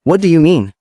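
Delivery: puzzled, asking what he means; lightly voiced curious princess. A narrator's reading. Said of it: "She asked curiously".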